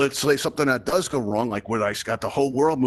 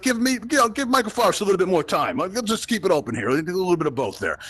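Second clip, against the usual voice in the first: higher, lightly voiced hesitant listener; a mild put-on voice playing an undecided fan; a hint of a wavering audience member giving him more time; unsure audience member; 6 semitones higher than usual. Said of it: "You're like".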